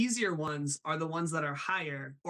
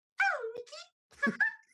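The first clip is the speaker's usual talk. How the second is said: very high, squeaky cartoon voice. Showing off impressions to a listener, doing a Minnie Mouse voice. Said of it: "And then I'll do Minnie".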